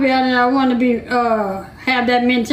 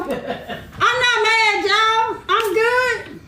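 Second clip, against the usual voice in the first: laughing; 5 semitones higher, much slower than usual. Real, not acted. Laughing denial of being mad.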